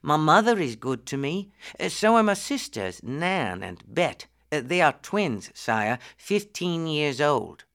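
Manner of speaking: lightly voiced humble lad; a hint of a respectful young commoner; deferential poor boy. Tom tells the prince about his family, humbly.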